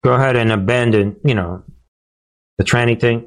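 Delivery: ventriloquist style, lips kept still; talking with mouth closed. Pretend. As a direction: say it through unmoving lips. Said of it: "Talk without moving your lips".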